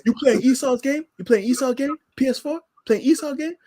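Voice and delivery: a hint of a scolding zealot; mock zealot. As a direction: needle him like a preacher. Mocking zealot scolding gamer.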